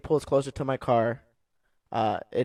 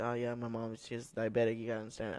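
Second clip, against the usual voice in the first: apologetic son; 10 dB quieter than usual. Retold or imitated. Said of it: "He's all apologetic".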